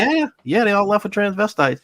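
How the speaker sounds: giggling so hard the voice jumps up; laughing quote. Retold or imitated. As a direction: retell it high, cracking up. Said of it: "And he's like".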